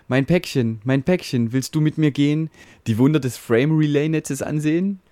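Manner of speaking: lightly voiced fatherly router, calm and reassuring; a hint of a caring father in a mock ballad; soothing router. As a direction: comfort the frightened little packet in rhyme.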